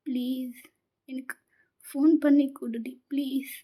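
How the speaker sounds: hushed, tearful begging that sinks to a whisper; girl crying, begging her friend to call him; crying plea. Acted. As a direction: plead through tears, barely voiced at times. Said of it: "அப்படி நீங்க அழறீங்க".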